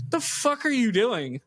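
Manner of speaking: mock angry dad. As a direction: snap at the all-nighter. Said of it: "He goes".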